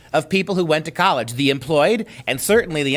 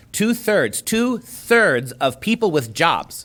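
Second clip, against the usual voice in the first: "Two-thirds" said twice, pitched up, then drawn out slowly; stress on Two-thirds; slower than usual. Real, not acted. Co-host presenting the survey, heavy emphasis on "Two-thirds". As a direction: lean hard on "Two-thirds", repeating it deliberately. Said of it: "my point about emphasizing that number".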